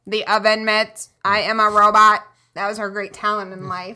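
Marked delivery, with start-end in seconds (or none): 0.1-2.2 flat, even robot delivery. Retold or imitated. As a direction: sound like a TV robot girl. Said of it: "she used to talk like this".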